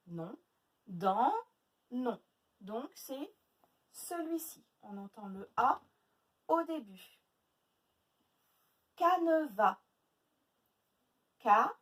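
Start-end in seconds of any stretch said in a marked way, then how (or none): 0.9-1.3 DANS drawn out and lower; stretched syllable. Shown as a demonstration. Teacher checking the last syllable for A, stretched. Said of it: "Où est-ce qu'on entend le A?". 11.4-11.7 CANEVAS as loud ca, ne, va with long pauses; split into syllables. Shown as a demonstration. Teacher counting three syllables, syllable by syllable. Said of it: "Trois syllabes".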